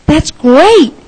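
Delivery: Mister Willoughby delighted at the cut tree; gleeful cry. Acted. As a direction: cheer it out with glee. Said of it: "Mister Willoughby cried with glee".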